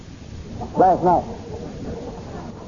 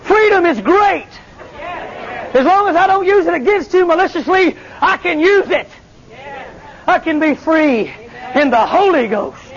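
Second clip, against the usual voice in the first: preaching at full force; 8 semitones higher than usual. Acted. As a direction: preach it out with shouting joy.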